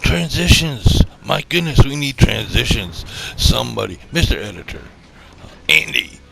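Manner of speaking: loud, comic shouting for transitions; mock outburst. Host shouting at the editor for transitions, loud. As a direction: bellow it out like a flustered director.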